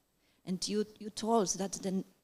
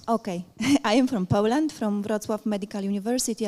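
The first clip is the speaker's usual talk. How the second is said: louder, projected self-introduction after a small laugh; speaking up; 6 dB louder than usual. Real, not acted. Audience member repeating her introduction on the moderator's request, speaking up. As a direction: raise your voice for the room. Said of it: "Can you talk a bit louder, please?".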